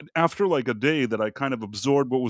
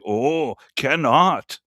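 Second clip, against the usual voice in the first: imitating Thai vendor; 3 dB louder, much slower than usual. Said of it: "They'll say".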